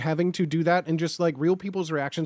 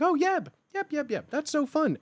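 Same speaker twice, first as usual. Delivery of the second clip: high, singsong mock delight; delighted reaction; 8 semitones higher than usual. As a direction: imitate someone gleefully trying out a cute name. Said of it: "I've seen that interaction with Yeb".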